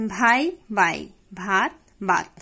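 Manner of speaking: ভাই then বাই without breath; aspirate dropped. Shown as a demonstration. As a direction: contrast ভাত and বাত. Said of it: "অল্পপ্রাণ ধ্বনি হিসাবে উচ্চারিত হয়". (মহাপ্রাণ থেকে অল্পপ্রাণ)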